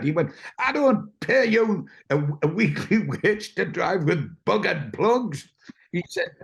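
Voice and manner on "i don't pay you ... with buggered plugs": high, indignant scolding; scolding boss. Retold or imitated. Lyons scolding the driver over buggered plugs, indignant. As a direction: tell him off like a stingy boss.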